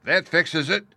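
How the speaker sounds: frightened gasp. A narrator's reading. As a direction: gasp it out in fear. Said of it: "gasped one".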